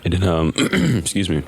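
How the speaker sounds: hoarse morning voice; just woke up, voice still rough. Real, not acted. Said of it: "I still got that morning voice".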